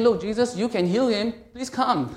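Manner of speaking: high, loud, urgent appeal; acting out a father's loud plea; desperate plea. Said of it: "desperately pleading to Christ".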